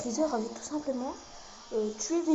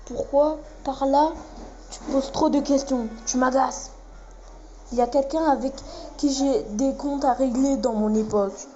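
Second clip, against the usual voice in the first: lightly voiced anime fighters trading threats; amateur fandub of tense anime dialogue; dubbing the cutscene characters. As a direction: read the cutscene like a hammed-up anime dub.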